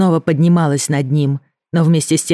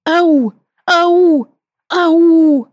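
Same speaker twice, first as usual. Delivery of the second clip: high, loud calling into the woods; 13 semitones higher, 5 dB louder, much slower than usual. Acted. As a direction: shout it out to the forest. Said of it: "продолжала идти и кричать". (громкий зов, ау)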